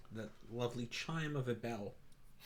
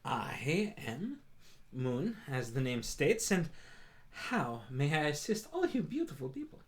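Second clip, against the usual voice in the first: higher, bright-pitched welcoming shop cat; Moon the Tabaxi shopkeeper; 5 semitones higher, 3 dB louder than usual. Acted. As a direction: greet customers grandly in a high voice. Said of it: "gesture and goes".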